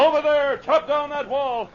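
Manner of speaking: calling out. Acted. Sergeant ordering men at a fire.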